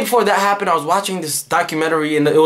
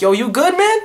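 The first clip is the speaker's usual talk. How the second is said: lightly voiced friend; 10 semitones higher than usual. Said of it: "And he was like".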